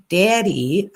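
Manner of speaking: "Daddy" mimicked with a rising end; imitating mom's "daddy". Host showing the irritating way mom says it, mocking imitation. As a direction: lift the end of "Daddy" in mild mockery. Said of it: "It's like".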